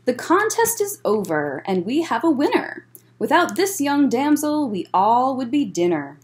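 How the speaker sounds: lively storybook read-aloud; bouncy rhyming picture-book narration; reading to children. A narrator's reading. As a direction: read it like story time for kids.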